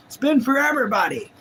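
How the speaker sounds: Forrest Gump voice. Pretend. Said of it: "my Forrest Gump wave".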